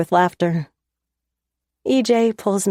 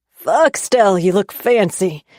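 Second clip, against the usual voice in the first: louder, a happy holler across the room; 4 dB louder, slower than usual. Acted. Brother greeting his sister at the door, hollering happily. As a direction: call out with rough brotherly delight. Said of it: "Jesse hollers".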